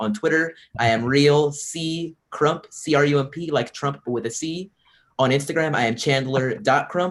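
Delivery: slow, deliberate, carefully spaced-out delivery. Spelling out social media handles for the audience, speaking slowly. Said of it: "so I'm going to say this slowly".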